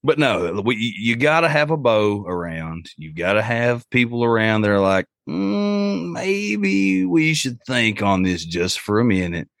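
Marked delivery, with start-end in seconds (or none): 5.3-9.5 high, slow, drawn-out hesitation; mock hesitant caution. Cautious friend reining in the group, mock hesitant drawl. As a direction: stretch it out like a wary friend imitated.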